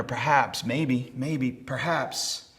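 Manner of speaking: hesitant, trailing into doubt; uncertain. Acted. Doubting soldier weighing the odds, uncertain. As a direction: wonder aloud, unsure. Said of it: "He's uncertain".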